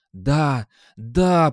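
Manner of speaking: loud hoarse yes; hoarse cry. A narrator's reading. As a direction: rasp it out with returning strength. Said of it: "прохрипел он". (хриплый крик)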